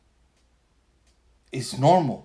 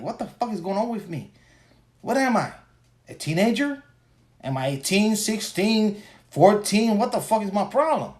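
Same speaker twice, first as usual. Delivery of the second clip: high, disbelieving questions; incredulous; 6 semitones higher than usual. Retold or imitated. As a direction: rattle off baffled questions. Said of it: "I'm like".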